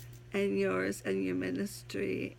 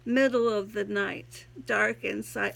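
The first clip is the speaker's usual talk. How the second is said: poem reading; 2 semitones higher than usual. Acted. Reads her own poem aloud.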